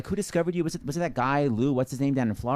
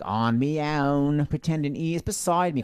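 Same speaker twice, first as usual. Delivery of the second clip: a hint of a Cockney girl singing; lightly sung Cockney vowels; Cockney girl, loosely imitated; mock Cockney; slower than usual. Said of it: "she's like a Cockney girl".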